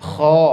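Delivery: "Kho" heavy, airy and flowing. Shown as a demonstration. Teacher drilling kho for students. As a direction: model the heavy kho clearly. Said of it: "Dan jangan sampai terdorong".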